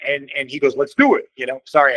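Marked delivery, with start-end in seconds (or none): 0.8-1.3 higher, louder imitation of an Italian accent; lightly put-on Italian accent. Bassist agreeing to the band idea, in an Italian accent. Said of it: "I have to do an Italian accent".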